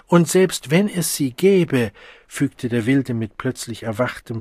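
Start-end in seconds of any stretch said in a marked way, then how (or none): 0.1-1.9 higher, louder, slow, full of disgust; contempt. Acted. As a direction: spit it out with sudden scorn. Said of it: "verachtungsvollem Abscheu".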